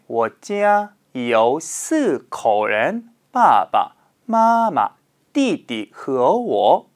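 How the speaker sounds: 我家有四口人 read slowly and clearly; model answer. Shown as a demonstration. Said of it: "라고 답변하셔도 괜찮습니다".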